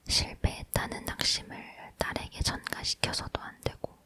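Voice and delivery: plain reading voice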